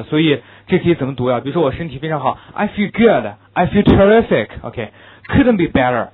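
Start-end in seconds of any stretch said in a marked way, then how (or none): 2.5-6.1 cheerful demo in a lifted, lively tone; upbeat, rising tone. Shown as a demonstration. Teacher showing students how good health sounds, upbeat and lifted. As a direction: say it like someone in great health. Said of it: "都是比较上扬的语调，比较欢快的语调".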